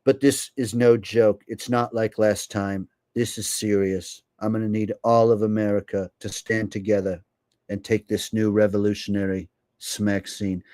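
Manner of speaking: measured, earnest televised appeal; gravely serious public-address voice; politician impression. A streamer imitates a politician urging America to take it, solemn impression. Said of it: "if you think that impression".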